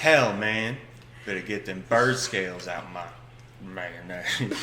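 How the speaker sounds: lightly voiced grumbling samurai; a hint of a mock ancient samurai. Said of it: "it's a Japanese dude, ancient samurai".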